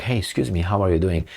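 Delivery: sweet fake courtesy, not how they really talk; mock polite. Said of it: "they don't talk like".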